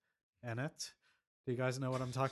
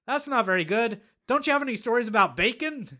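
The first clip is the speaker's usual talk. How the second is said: high, loud mock heckler voice; snooty rat voice; 8 semitones higher, 7 dB louder than usual. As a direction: squeak it out like a snobby rat. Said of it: "They're like".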